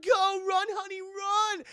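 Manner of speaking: high, loud urgent call; high urgent shout. Retold or imitated. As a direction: yell it high for the daughter to run. Mother urging daughter to flee.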